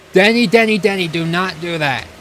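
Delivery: real alarmed call-out, easing by the end; urgent warning. Real, not acted. Streamer warning Denny mid qualifying lap, urgent call-out.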